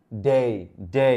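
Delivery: "ডে" as a long gliding "day"; correct English pronunciation. Shown as a demonstration. Teacher answering own question for learners, "ডে" carefully pronounced "day". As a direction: say each "ডে" separately, drawn into "day". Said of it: "এই যে ডে না কিন্তু আজ থেকে".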